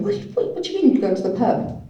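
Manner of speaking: high incredulous sibling demand; imitating an angry brother's disbelief; mock angry siblings. Siblings angry she went to the pub, mock outrage. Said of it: "my brother and sister were sort of angry".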